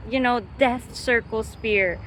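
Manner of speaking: put-on awed child.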